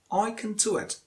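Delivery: "can" squeezed to "kn"; weakest form of CAN. Shown as a demonstration. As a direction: drop the vowel from "can". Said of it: "Use the weakest form".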